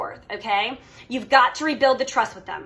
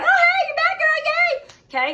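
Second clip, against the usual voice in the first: much higher, squealy cheering aunt; gushing Aunt Jan; 5 dB louder, slower than usual. Retold or imitated. Coach imitating Aunt Jan cheering her return: squealy high gush. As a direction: squeal it like a thrilled aunt welcoming her back. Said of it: "Aunt Jan, right, will be like".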